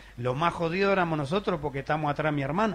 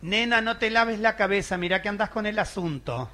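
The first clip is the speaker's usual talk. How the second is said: warning grandma; 4 semitones higher than usual. Retold or imitated. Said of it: "la abuela decía".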